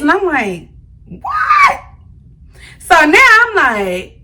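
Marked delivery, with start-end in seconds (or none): 1.1-1.8 shocked what. Retold or imitated. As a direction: shriek it like you can't believe your ears. Shocked reply to being cursed at.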